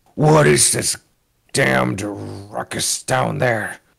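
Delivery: rasping, rough, growling voice. Game narrator voices a figure calling down from upstairs in a deep growling voice. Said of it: "a deep voice uh, growls".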